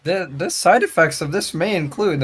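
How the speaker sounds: drug ad voiceover. Retold or imitated. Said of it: "Like the ads where it's like".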